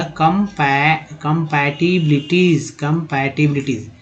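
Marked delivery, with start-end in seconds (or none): 0.0-1.1 कंपै- stretched very slowly and cut short; syllable broken off. Shown as a demonstration. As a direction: isolate कंपै- as a slow teaching fragment. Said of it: "ये आधा म हो जाएगा".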